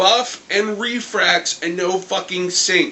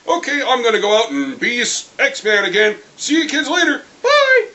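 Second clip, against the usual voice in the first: mock cheery goodbye; 5 semitones higher, 3 dB louder than usual. Voices Cannonball leaving.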